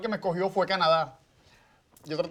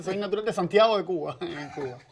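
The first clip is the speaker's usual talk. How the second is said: laughing. Real, not acted. Guest laughs while introducing herself.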